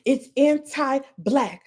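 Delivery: anti-black said slowly and weighted; slow emphasis. Shown as a demonstration. Streamer proving her point to viewers, slow stress. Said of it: "Take that ness off".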